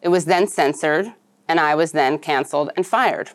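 newsreader delivery with a swinging pitch; scripted news read. Acted. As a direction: read it to camera like a news monologue. Reads her scripted monologue.

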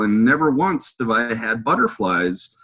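mildly giddy admiration; giddy fan. Retold or imitated. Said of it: "giddy as a schoolgirl".

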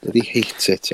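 put-on South Walian grumble; jokey South Wales accent impression. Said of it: "such a South Wales accent on him".

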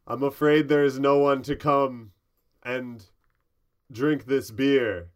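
loud, slow gnome door reply; slow booming door. Acted. Gnome door turning down the beer offer, loud and slow. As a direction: drag it out, loud and grave.

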